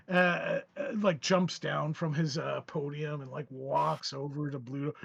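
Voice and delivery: ordinary delivery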